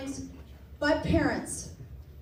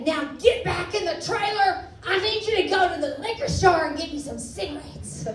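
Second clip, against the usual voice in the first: lightly higher-pitched bossy mother; mock trailer-park mom; 5 semitones higher than usual. Mom sending her child on an errand, mock bossy. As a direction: order the kid about like a trashy mom.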